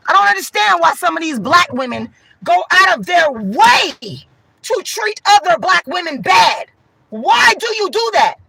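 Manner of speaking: loud rant. Real, not acted. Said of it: "I'm yelling right now. I'm talking loud right now".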